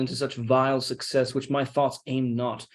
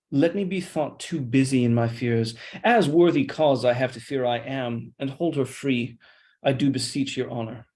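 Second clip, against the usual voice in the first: normal talking voice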